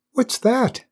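very high, small questioning flower; little flower voice. A narrator's reading. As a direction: ask innocently in a tiny high voice. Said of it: "asked the flower".

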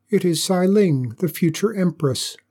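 high, bold and ringing; proud declaration. Acted. Girl announcing herself to the dragon, high and bold. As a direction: stand tall and announce yourself.

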